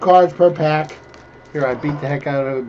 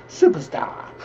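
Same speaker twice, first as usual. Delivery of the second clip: whispered; slower than usual. Shown as a demonstration. Repeats name under breath.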